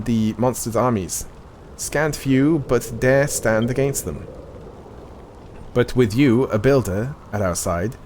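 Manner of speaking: measured, solemn NPC reading; game dialogue reading. Acted. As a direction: read it like a quest-giver's briefing. Reads game NPC dialogue aloud.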